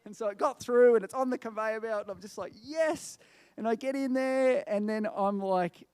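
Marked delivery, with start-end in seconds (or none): 2.6-3.2 high, drawn-out cheer; acted jubilant "yes"; retold triumph. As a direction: celebrate a narrow escape, without shouting. Retelling triumph as bag gets through.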